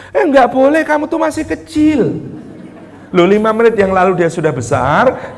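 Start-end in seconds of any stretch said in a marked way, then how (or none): 0.1-2.2 scolding mother. Retold or imitated. Mother refusing child's request.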